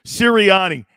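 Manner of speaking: loud mock radio-host boom on the name; a hint of a booming sports-radio caller; Angelo Cataldi voice. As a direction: bellow the name like a Philly host. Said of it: "Angelo Cataldi voice".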